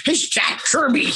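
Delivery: as if it settles everything; laughing exclamation. Real, not acted. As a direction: exclaim it high, breaking into a laugh. Exclaims at an absurd question.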